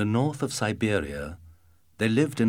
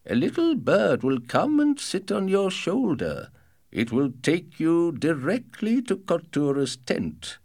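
father voice; 8 semitones higher than usual. Acted. Father answers.

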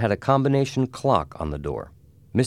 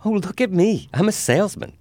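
high-pitched, playful delight; laughing playfulness; 14 semitones higher, 4 dB louder than usual. A narrator's reading. Annabelle jokes to the family in Jimmy's hat, high and playful. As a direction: show off playfully, pitched right up. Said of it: "she said, laughing".

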